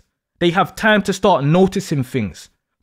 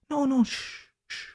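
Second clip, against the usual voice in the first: hushing; 6 semitones higher, 12 dB quieter than usual. Acted. Hushing crying partner.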